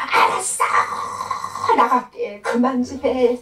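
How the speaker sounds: exasperated demon giving in; fed up. Retold or imitated. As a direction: drag out the complaint as a sick-of-it demon. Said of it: "막 지겹다는 소리예요".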